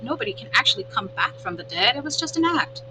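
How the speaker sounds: lightly voiced opossum, pleased with herself; a hint of a proud little actress animal; chatty opossum. Opossum boasting to the robot about her act, lightly voiced.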